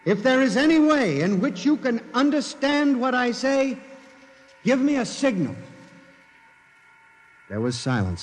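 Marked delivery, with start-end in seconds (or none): 0.0-5.5 desperate summons. Acted. Calling out to the machine again.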